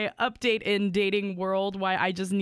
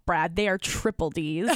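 laughing. Retold or imitated. Correcting rude match.

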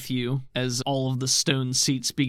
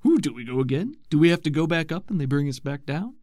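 excited Bolt voice; 5 semitones higher, 5 dB louder than usual. Acted.

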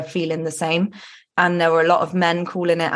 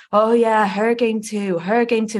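higher-pitched retelling of a heckler's shout; mild mock shouting; 4 semitones higher than usual. Retelling how a man heckled at the match, mild mock shouting. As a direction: imitate a taunting shout, only half raised. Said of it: "he then started shouting".

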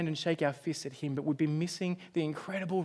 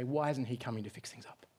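crying out against God; 3 dB louder than usual. Retold or imitated. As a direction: start hushed, then rise into mock outrage. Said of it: "cry out and say".

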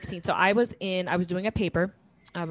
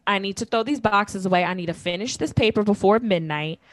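louder, fed-up scolding; irritated scolding; 3 semitones higher, 6 dB louder than usual. Retold or imitated. Scolding her husband over the boxes, louder and irritated. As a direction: scold him for wasting her time. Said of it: "I'm pissed at this point".

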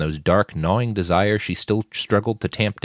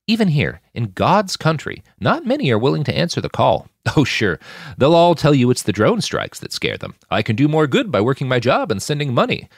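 higher, louder preacherly admirer; lightly voiced Saul; 4 semitones higher, 4 dB louder than usual. Saul praising Sasha's bravery, lightly preacherly. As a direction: praise her courage, a bit grand.

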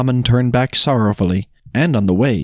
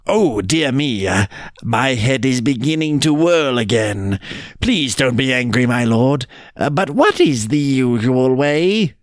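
hesitant, mock-bewildered pleading; lightly voiced flustered jackal. Jackal begs the tiger's patience, lightly flustered.

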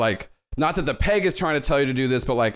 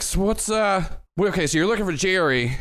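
put-on chirpy old-fashioned bellhop; 5 semitones higher than usual. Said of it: "Jenkins just looks at you, goes like".

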